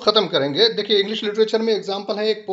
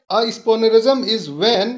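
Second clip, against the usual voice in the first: very slow, deliberate reading; slow dictation; much slower than usual. Shown as a demonstration. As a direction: read "a spoonerism is when" word by word. Teacher reads definition slowly.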